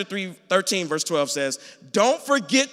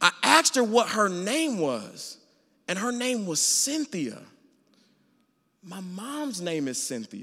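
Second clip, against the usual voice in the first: choked-up, tearful, on the verge of crying. Telling a personal story to listeners, about to cry. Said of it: "I'm about to cry".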